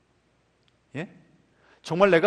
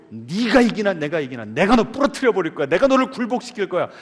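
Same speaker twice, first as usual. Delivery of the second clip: bullying wind voice; 2 semitones higher, 5 dB louder than usual. Retold or imitated.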